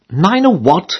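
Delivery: half-acted jolt of surprise; startled cry. Lodger woken by landlady, in mild mock alarm. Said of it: "I cried".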